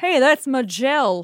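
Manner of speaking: lazy, slow drawling Southern accent. Reading out a listener's tweet on how to say a name: slow southern drawl. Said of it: "like a slow southerner".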